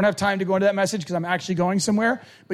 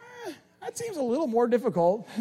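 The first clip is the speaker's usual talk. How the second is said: laughing mock reluctance; 3 semitones higher, 5 dB quieter than usual. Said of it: "we're like".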